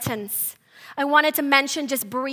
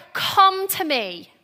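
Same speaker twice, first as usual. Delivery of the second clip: slow, higher, earnest plea; intimate invitation; 4 semitones higher than usual. Acted. Preacher contrasting Jesus' call with a casual hail, intimate. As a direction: draw the words out to pull someone close. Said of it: "It's this intimacy".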